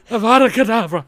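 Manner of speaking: high, loud curse through laughter; laughing spell cast. Pretend. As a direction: shout the curse while laughing.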